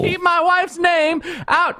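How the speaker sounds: high, slow mock-angry yelling impression; Will Smith outburst. Topical joke in the genie's role, mock-angry high outburst. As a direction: stretch it out like a celebrity's furious outburst. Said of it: "that's my Will Smith".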